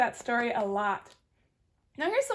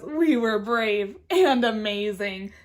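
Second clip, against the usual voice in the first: lower, slow boastful voice; proud raccoon; 4 semitones lower, 4 dB louder, slower than usual. Acted. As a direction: puff up and boast. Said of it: "Raccoon says".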